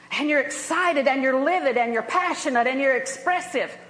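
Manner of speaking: worked-up and expressive, punching each adjective; impassioned, with swooping emphasis on each feeling; mildly livid, animated demonstration; passionate, livid. Shown as a demonstration. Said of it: "not the only tone of voice".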